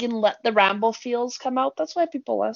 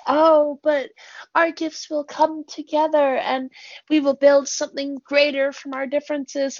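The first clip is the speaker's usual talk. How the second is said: idealistic dreamer; 5 semitones higher than usual. Retold or imitated. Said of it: "the utopian me wants to say".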